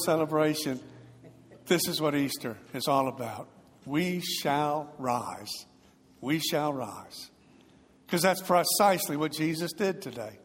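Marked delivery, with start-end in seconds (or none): 3.8-7.3 softer, very slow declaration; quiet affirmation. Real, not acted. Preacher telling the Easter congregation, soft and slow. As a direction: let it sink in, gentle and sure. Easter proclamation, softly repeated.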